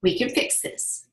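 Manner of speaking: soft whispered promise; whispered comfort from a neighbor; whispered reassurance. Retold or imitated. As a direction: hush it like a kind neighbor. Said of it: "He says".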